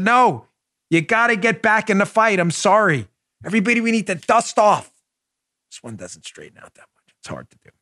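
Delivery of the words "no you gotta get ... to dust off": a retold pep talk, higher and eager; mock-urgent encouragement to a fan; rallying. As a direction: push her back into the fight. Retells own rallying reply.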